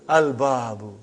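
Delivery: "Al-babu" with a clear l before the b; moon-letter reading of "Al-babu", l audible; lam pronounced. Shown as a demonstration. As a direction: sound the l fully in "Al-babu". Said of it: "You did pronounce lam".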